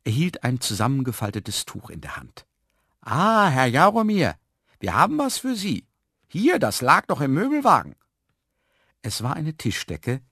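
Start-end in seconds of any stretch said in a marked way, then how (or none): 3.0-8.0 high, loud hailing voice; hearty furniture mover. A narrator's reading. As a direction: hail a customer loudly and high. (Möbelpacker, laut und hoch rufend)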